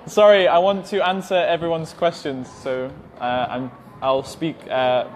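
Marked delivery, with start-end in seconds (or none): 0.0-2.5 laughing apology. Real, not acted.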